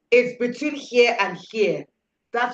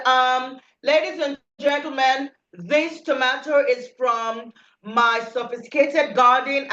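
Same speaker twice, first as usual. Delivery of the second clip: hammed-up formal speechmaker; mock posh seller; 2 semitones higher than usual. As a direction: oversell the tomato grandly. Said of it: "you're going to be like".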